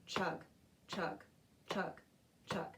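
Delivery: steady chug chug beat; chanted train chugs. Shown as a demonstration. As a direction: chant the train rhythm evenly. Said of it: "Can you keep the beat for me?".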